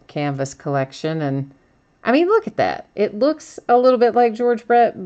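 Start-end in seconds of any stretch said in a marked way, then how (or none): 2.1-5.0 amused surprise. Real, not acted. Reacting to the odd George Brett card, pitched up in amused disbelief. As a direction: pitch jumps up, half-laughing at the card.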